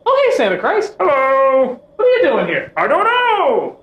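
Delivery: high, far-off character voices; mock dialogue. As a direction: act out the awkward meeting. Mock acted exchange between characters.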